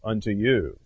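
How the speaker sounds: slow, grave lament of woe; solemn woe from Jesus. Retold or imitated. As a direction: pronounce woe on the Pharisees, slowly. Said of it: "He would say it to the Pharisees".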